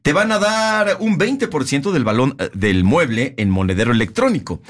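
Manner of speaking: measured announcer delivery with punched key words; radio ad read. Real, not acted. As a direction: sell it like a sponsor spot. Reads the scripted furniture ad.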